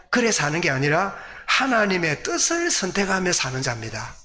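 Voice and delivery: normal talking voice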